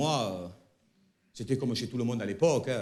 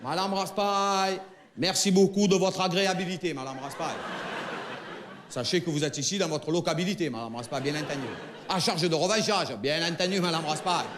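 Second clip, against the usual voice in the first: over-polite neighbour talk. Retold or imitated. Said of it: "mon père, il lui avait dit".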